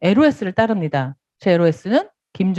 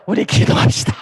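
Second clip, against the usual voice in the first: hushed prayer. Retold or imitated. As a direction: whisper it gently, a pious sponsor. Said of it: "그밖에 할 말이 없는 거죠".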